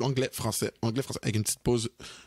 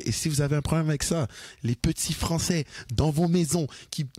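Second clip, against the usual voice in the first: mock taunt; 6 semitones higher than usual. Taunts critics who mind bilingual speech.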